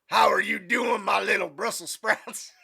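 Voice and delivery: hammed-up movie sergeant shout; Major Payne. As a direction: boom it out at young cadets. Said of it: "do you guys ever watch Major Payne?".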